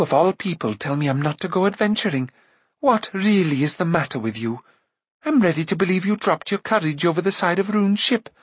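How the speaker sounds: lightly voiced indignant girl; protesting Eilonwy. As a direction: protest with growing indignation, pitch climbing at the end.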